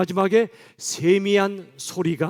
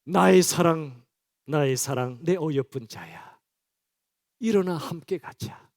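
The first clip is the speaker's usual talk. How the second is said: lightly voiced tender lover; tender call; 3 semitones lower, slower than usual. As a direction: coax a fallen beloved gently. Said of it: "하나님 예수님의 마음이 그 속에 가득 담겨 있어요".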